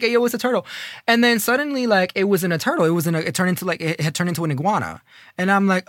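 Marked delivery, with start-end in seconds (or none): 0.0-0.7 a little higher, still chuckling; amused call-out. Retold or imitated. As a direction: call out the turtle through a laugh.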